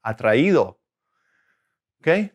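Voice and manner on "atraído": "Atraído" with the í stressed; teacher demonstrating "Atraído", stress on í; stress on the accented í. Shown as a demonstration. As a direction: put the weight on the í of "Atraído". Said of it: "maintain the right stress and the right syllable".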